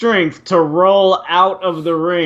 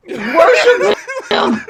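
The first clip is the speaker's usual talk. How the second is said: mock worship; 14 semitones higher, much slower than usual. Joking praise of Buddy.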